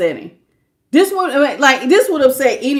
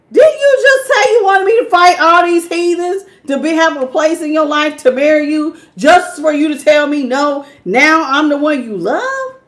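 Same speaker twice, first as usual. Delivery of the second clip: indignant confrontation; 3 semitones higher than usual. Retold or imitated. Client confronting the arrogant ex, indignant and incredulous. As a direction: throw their words back at them in disbelief. Reader voices querent confronting ex.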